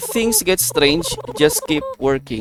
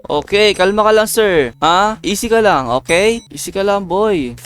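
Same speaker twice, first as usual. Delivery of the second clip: high, louder rush to calm the patient; urgent calming; 5 semitones higher, 3 dB louder than usual. Acted. Pleading with a panicking patient, high and urgent. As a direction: settle him down, fast and anxious.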